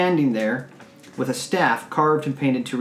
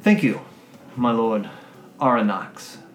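gracious lady. Acted. Noble lady thanking the dwarf, courteous. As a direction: thank him with formal grace. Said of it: "she says".

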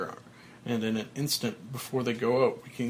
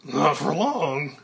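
slow, louder, sly threat; smiling threat; 3 semitones higher, 5 dB louder, slower than usual. Acted. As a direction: savor the menace. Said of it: "Smiling, Elliot says".

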